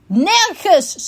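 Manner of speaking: high, emphatic NERGENS; loud repeat. A narrator's reading. Repeated louder after "Wat?.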